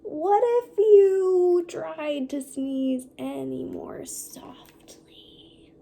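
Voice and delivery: slow, dropping to a whisper; slow fading question. Acted. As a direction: ask gently, trailing to a whisper. Piggy asks softly.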